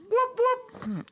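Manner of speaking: train whoop. Retold or imitated. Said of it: "That sounds like the train's just arrived".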